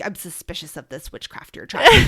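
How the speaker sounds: put-on a teen eyeing mom's new trick, suspiciously; mock suspicious daughter. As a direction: voice the daughter's distrust, hammed-up. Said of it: "I, like".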